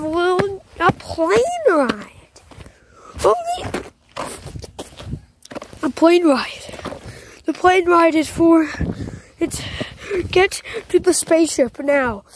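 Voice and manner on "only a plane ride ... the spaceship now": weird throat voice. Pretend. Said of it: "It's making me talk like that".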